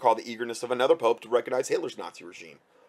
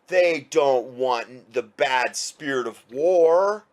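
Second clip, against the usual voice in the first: sarcastic; 5 dB louder, much slower than usual. Real, not acted. Mocking enemies' claims of peace.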